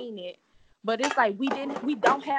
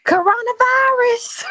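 booming, drawn-out announcement; dramatic shout; 13 semitones higher, 13 dB louder, slower than usual. Acted. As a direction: belt it out like a headline.

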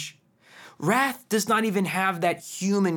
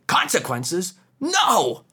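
mock child protest; 3 semitones higher, 3 dB louder, slower than usual. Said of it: "usually recoil and they say".

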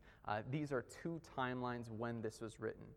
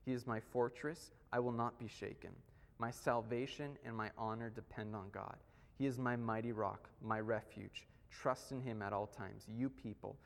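a measured, solemn reading of the psalm; scripture reading. Acted. Pastor reading a psalm to the church, solemn and measured. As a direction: read the verses out to the congregation with weight.

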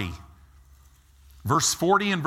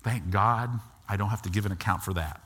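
hushed, much lower, sheepish; sheepish relief; 11 semitones lower, 5 dB quieter than usual. Retold or imitated. Born-again believer before Jesus, hushed and sheepish. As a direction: mumble it like you just dodged trouble. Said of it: "they're gonna be like".

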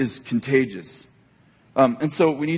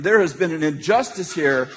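lightly played stern investigator; mock interrogator; 4 semitones higher than usual. Grandpa questions the grandkids about the fight, mock interrogation. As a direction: announce it like a mock prosecutor. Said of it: "I'm interrogating them".

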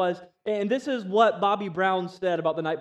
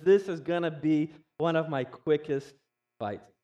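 Mike Tyson impression; 2 semitones lower than usual. Tyson waving off his friend's warning, lightly voiced cocky boast. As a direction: brag like a champ who can't lose, barely in character. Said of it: "And then Mike said".

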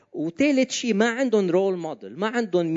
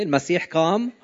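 firm and louder, rising on قام; louder proclamation; 4 dB louder than usual. Shown as a demonstration. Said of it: "تالتة ثابتة".

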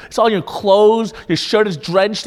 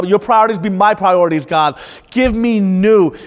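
fervent prayer. Acted. Psalmist begging God for renewal, fervent prayer. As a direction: plead with God in full fervour. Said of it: "So he's saying".

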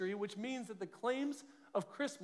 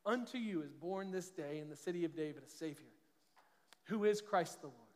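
scripture reading; 3 semitones lower than usual. Acted. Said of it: "listen to what he says".

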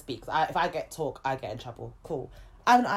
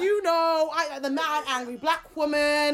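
mock angry black woman; 8 semitones higher, slower than usual. Acting the stereotype she was cast as.

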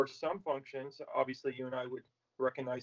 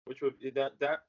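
talking around a mouthful of ice. Real, not acted. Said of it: "Sorry, I got ice in my mouth".

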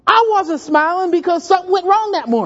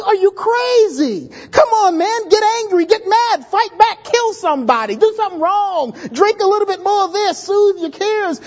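mock yelling crowd; 4 semitones higher than usual. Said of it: "everyone yelling at you".

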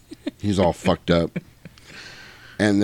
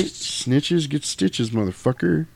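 slow menace; 6 semitones higher, 3 dB quieter, slower than usual. Real, not acted. Menacing taunt at the snitch.

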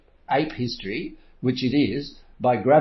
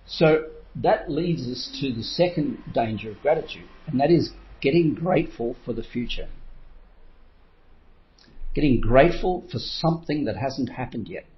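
ordinary delivery

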